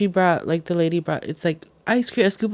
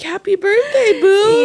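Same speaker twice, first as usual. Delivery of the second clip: doting mother; 12 semitones higher, 4 dB louder, slower than usual. Retold or imitated. Mother congratulating child.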